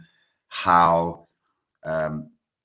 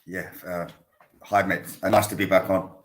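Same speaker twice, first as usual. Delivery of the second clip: slightly throaty, hoarse speaking; 3 semitones higher than usual. Real, not acted. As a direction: talk through a rough, throaty throat. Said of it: "if I sound a bit throaty".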